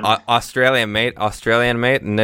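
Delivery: put-on light Australian accent; lightly voiced Aussie bloke; aussie tradesman. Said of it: "un señor con acento australiano".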